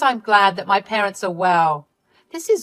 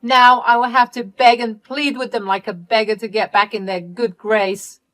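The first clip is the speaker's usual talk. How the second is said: much higher and louder angry outburst; furious yelling; 5 semitones higher, 6 dB louder than usual. Acted. Candy screaming at Ellie for the loudspeaker trick, high and loud. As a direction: tear into your sister. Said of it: "called me back to scream at me".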